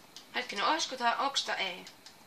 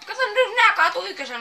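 much higher, loud laughing call; 10 semitones higher, 15 dB louder, faster than usual. Real, not acted. Gamer laughing at the pins knocked down. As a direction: burst out laughing while pointing it out.

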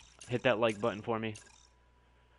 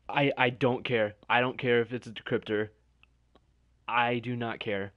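elated insistence; 4 dB louder than usual. Real, not acted. Overjoyed, ignoring drawback.

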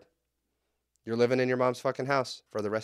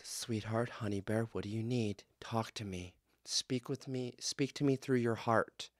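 soft, hushed, cooing mother voice; mock cooing mom; 4 semitones lower, 9 dB quieter than usual. Mother coaxing a tantrum-throwing kid, soft cooing. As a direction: coo it like a doting mom. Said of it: "and she goes".

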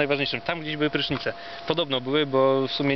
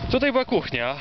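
pitched way up, like a tour announcer; high put-on voice; 9 semitones higher than usual. Tour guide shows old kitchen.

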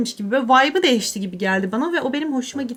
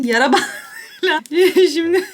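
laughing; 4 semitones higher, 4 dB louder than usual. Real, not acted. Laughing at taping her eyes.

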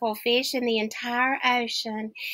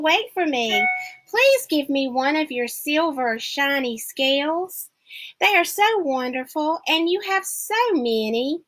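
pleading little fish; 5 semitones higher than usual. Acted.

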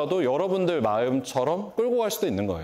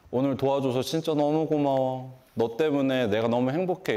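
mild tender thanks. Retold or imitated. Dad thanking daughter at bus.

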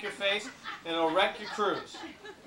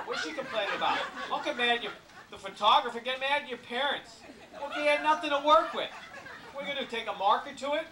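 laughing; 6 semitones higher than usual. Real, not acted. Joking about bad photos.

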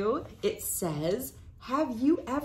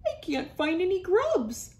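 crying beetle; 10 semitones higher than usual. Acted. Sad ground beetle cries about grubs, high wailing voice. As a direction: wail it like a tiny sad beetle. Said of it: "a voice cried".

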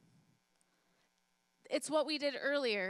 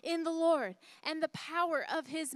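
slow, mild mock yell, raised and stretched; 3 semitones higher, 4 dB louder, slower than usual. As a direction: cry it out triumphantly, slow. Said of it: "she started yelling".

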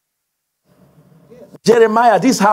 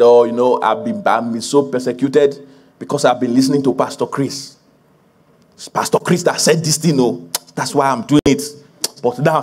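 low, subdued mock complaint; lightly voiced complainer; 4 semitones lower than usual. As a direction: mildly imitate a self-pitying believer. Acts out a complaining church member.

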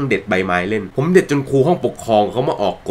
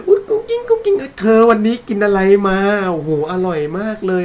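much higher, sugary mock sweetheart talk; young couple cooing at each other, mock cutesy; 8 semitones higher than usual. Mocking a lovey-dovey couple.

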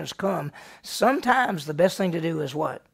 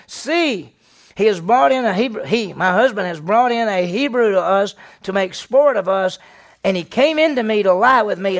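raised, higher and louder, crying foul; loud accusing cry; 4 semitones higher, 7 dB louder than usual. Acted. Wife calls her household men in, loud accusing cry.

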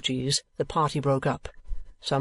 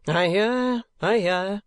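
high, louder hushing to calm him; soothing friend; 6 semitones higher, 3 dB louder, slower than usual. A narrator's reading. Friend holding Sir Mulberry back, quick humouring hush. Friend calms the struggling man.

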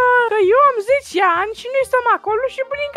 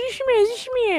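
furtive; 9 dB quieter than usual. Pretend. Secretly begs classmate for second answer.

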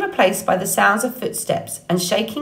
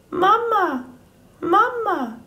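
put-on much higher, tiny chirping baby voice; peeping gosling; 13 semitones higher, slower than usual. A narrator's reading. Gosling calling to Roz for food, high peeping. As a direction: peep it like a hungry chick.

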